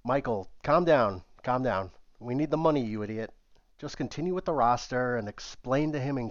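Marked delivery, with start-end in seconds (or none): 0.0-3.3 raised voice trying to settle him; urgent calming. Acted. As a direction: hold him back urgently. Pleading with Michael to calm.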